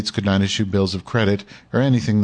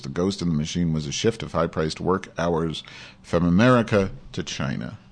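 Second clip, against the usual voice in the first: lightly heightened reading voice, a bit more lift than his asides; article read aloud. Acted. Host reading an article to his audience, lightly dramatic read. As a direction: read the op-ed out like a column on air.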